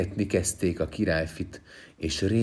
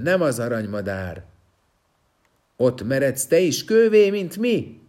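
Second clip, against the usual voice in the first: high, loud menacing yells; threatening shouts; 10 semitones higher, 7 dB louder than usual. Acted. Stone men threaten the prince from behind, loud menacing shouts. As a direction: bellow threats to scare him off. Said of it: "Egyre csak kiabáltak".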